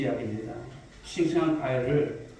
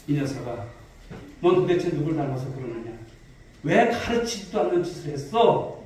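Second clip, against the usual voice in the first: 다그치는 아버지. Retold or imitated. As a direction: act out a father taking his son to task. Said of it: "이렇게 다그쳤어요". (아들을 살짝 다그치듯)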